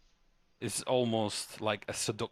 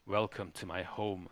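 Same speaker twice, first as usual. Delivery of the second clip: low voice for a woman; lightly voiced lady of the house, pitched low; self-admitted deep voice for the hostess; deep female voice; 2 semitones lower than usual. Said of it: "Sorry about the deep voice".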